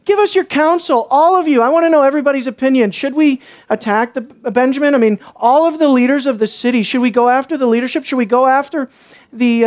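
feigned concern, asking everyone's opinion; sarcastic Levite asking for counsel. Retold or imitated. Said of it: "do you hear the sarcasm in my voice".

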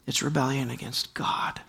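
breathy whispered emphasis. Acted. Preacher whispering the point to the congregation. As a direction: whisper it like a secret truth. Whispered after hushed lines.

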